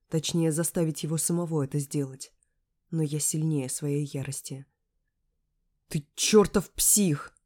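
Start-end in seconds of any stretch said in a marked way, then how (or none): 5.9-7.3 furious slow shout, higher and louder; yelling. A narrator's reading. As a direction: yell it right in his face. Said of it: "ору ему в лицо". (ярость, крик в лицо)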